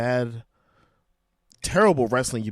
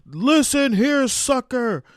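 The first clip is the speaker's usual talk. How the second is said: marbles in mouth; 13 semitones higher, 7 dB louder than usual. Retold or imitated. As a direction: talk like marbles in your mouth. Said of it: "he's got marbles in his mouth".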